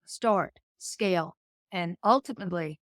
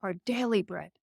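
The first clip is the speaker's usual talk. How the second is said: prayer recitation. Acted. Guest quoting the Lord's Prayer, solemn recital.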